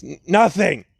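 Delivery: mild stammer on the first sound; stuttering denial. Acted. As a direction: trip on the N, then blurt it. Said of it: "he's stuttering severely".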